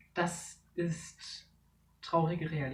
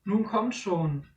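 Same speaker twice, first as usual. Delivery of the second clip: slow, loud impatient call to the others; 4 semitones higher, 6 dB louder, slower than usual. Acted. Dara calling her friends, impatient. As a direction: urge them on, can't wait.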